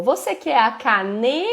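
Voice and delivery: pare em "cane-", suspenso, esperando o resto; "cane-" esticado em tom de pergunta, sem a última sílaba; palavra incompleta. Shown as a demonstration. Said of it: "você deixa pra ela completar o tá". (deixe "cane-" no ar para a criança completar)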